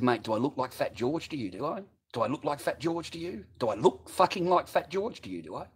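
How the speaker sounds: mildly confrontational, pitch climbing with each repeat; retold challenge. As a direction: needle him with rising questions. Retold challenge to stall holder.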